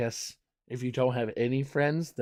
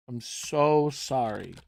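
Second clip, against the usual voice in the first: sympathetic; slower than usual. Shown as a demonstration. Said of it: "You gotta be supportive".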